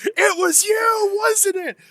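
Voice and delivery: high, slow, loud accusation; accusing shout. A narrator's reading. A dude in the bar accusing someone, high and loud shout. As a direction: yell it at the culprit. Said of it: "you hear some dude go".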